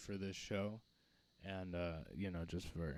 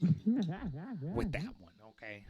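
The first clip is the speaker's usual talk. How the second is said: high, slow, drawn-out cartoon voice; lightly hammed Roger voice; Roger from American Dad; 8 semitones higher, much slower than usual. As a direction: stretch it out like a camp cartoon alien. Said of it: "now you have to be Roger from American Dad".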